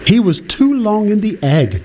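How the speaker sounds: high, fussy mother duck. A narrator's reading. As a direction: explain it like a proud mother duck. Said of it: "she explained".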